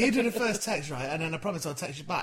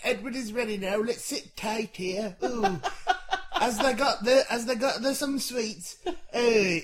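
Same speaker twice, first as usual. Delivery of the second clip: put-on Yorkshire accent; 2 semitones higher than usual. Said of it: "He's from Yorkshire now".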